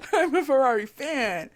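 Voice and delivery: high, laughing declaration. Real, not acted. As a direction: laugh as you say it. Laughs while declaring herself a fan.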